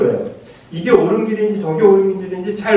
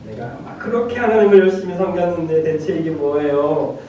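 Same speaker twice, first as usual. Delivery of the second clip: retold aggrieved protest, only mildly raised; pent-up indignation; 2 semitones higher than usual. Preacher retelling Abraham's outcry to God, mildly indignant. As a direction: voice Abraham's grievance without really shouting. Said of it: "울분의 톱에서 하나님께 막 외치니까".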